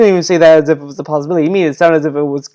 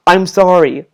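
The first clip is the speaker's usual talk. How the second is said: mock apology with an impatient edge; imitated grudging apology; overly defensive; slower than usual. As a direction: say sorry as a defensive brush-off. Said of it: "be overly defensive".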